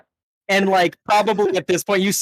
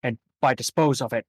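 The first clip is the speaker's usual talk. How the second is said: boss NPC; 2 semitones lower than usual. Acted.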